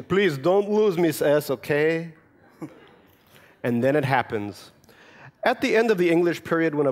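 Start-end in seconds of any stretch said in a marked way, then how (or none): 0.0-2.1 put-on slow, anxious little boy begging; a child's slow worried request; worried plea. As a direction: plead slowly, worried for the notebook. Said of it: "with the worried admonition".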